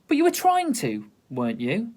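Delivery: high, accusing telling-off; girl accusing the lion; indignant scolding. Acted. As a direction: call him out on it.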